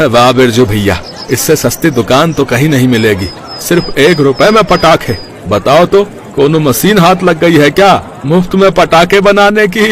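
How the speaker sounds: a cheerful neighbour teasing; jovial customer. Acted.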